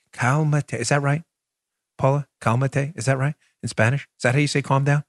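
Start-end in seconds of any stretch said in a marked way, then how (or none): 0.1-0.7 "Calmate" tried as KAHL-mah-tay, unsure Spanish stab; attempted Spanish. Shown as a demonstration. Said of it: "I'm saying that wrong". 2.4-2.9 "Calmate" tried as KAHL-mah-tay, unsure Spanish stab; attempted Spanish. Shown as a demonstration. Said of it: "I'm saying that wrong".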